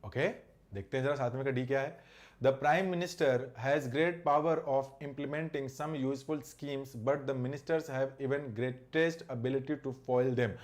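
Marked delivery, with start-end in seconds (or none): 2.4-10.6 slow sentence read-aloud. Shown as a demonstration. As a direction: read the English sentence out slowly and deliberately. Reads the example sentence slowly.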